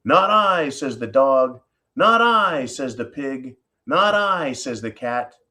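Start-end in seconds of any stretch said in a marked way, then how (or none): 0.1-0.7 dog refusing. Acted. 2.0-2.6 pig refusing. Acted. 3.9-4.5 cat refusing. Acted.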